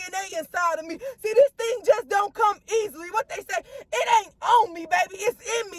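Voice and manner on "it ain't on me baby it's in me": emphatic declaration. Acted. Preacher declaring to listeners, emphatic. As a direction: punch it out strong.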